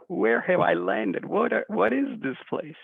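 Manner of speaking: slow, high, amazed where have I landed; stunned disbelief. Retold or imitated. A customer given money back, slow, high, stunned wonder.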